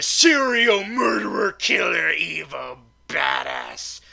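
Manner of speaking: loud, drawn-out punch on each word; emphatic hype. Acted. Reviewer hyping his own version of Doctor Doom, emphatic and loud. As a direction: build it big and stretch the ending.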